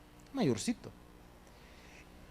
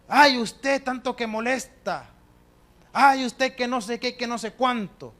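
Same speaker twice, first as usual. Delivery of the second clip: annoyed son; 4 semitones higher, 4 dB louder, slower than usual. Retold or imitated. Son annoyed at praying mother.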